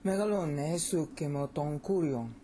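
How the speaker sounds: Megalune sukemu don kurion in one connected run; flowing Greek stress. Shown as a demonstration. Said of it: "See how that flows".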